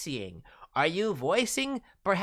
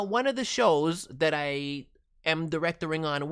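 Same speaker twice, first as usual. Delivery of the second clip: ordinary talk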